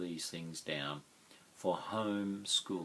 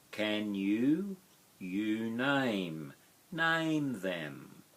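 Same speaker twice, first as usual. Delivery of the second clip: slow overlapping word pairs with a lift on each; chunked phrase by phrase; 2 semitones higher, much slower than usual. Shown as a demonstration. Teacher to class, chunking the sentence pair by pair, slowly. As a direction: model the words in small linked chunks for learners. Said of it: "teacher chunking phrase by phrase".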